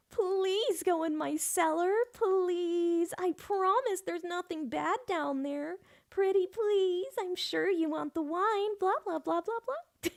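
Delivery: high, slow creepy pleading voice; horrible begging voice. Retold or imitated. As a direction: wheedle them into the cellar. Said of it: "now I'm thinking of".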